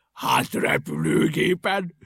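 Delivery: loud, slow, delighted answer; gleeful eureka; cheered up. A narrator's reading. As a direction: proclaim the bright idea. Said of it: "rögtön vidámabb lett".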